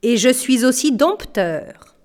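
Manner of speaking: puffed-up. Acted. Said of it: "se rengorgea-t-il".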